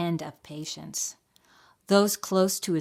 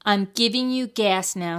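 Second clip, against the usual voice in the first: mouse dentist; 4 semitones higher, 7 dB louder than usual. A narrator's reading. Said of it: "said Doctor DeSoto".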